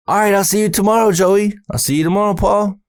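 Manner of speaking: high, fast and cheery; quick high goodbye; Paul's voice. Retold or imitated. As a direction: chirp it out like an eager kid. Paul voiced, higher, fast.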